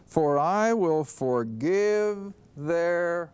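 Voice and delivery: slow "For I will forgive their", left hanging for the answer; drawn-out prompt. Shown as a demonstration. Preacher pausing so the congregation supplies the word, slow. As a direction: stretch it out and stop short for them to fill in.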